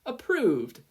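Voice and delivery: high, loud approval; yelled. Acted. Midnight approving the name, yelling high. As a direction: call it out with gusto. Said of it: "Midnight yelled".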